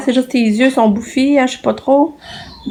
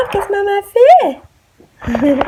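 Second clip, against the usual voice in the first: very slow, high singsong; singsong coaxing; 11 semitones higher, 6 dB louder, much slower than usual. Real, not acted. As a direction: draw it out to lure her over. Coaxing the child to come.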